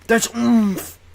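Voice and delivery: excited squeal. Real, not acted. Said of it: "What does that mean".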